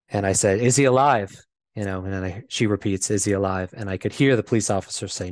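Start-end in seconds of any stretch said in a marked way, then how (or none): 0.6-1.3 higher, louder retold urgent question; mildly alarmed, retelling an anxious question. Son asks mom if dad is alive, retold urgent question.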